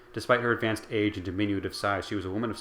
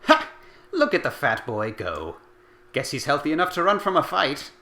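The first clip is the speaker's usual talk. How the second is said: mocking laugh; 7 semitones higher, 6 dB louder than usual. A narrator's reading. Old woman jeering at fleeing boys, mocking laugh. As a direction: laugh them off the field. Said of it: "barked out a single laugh".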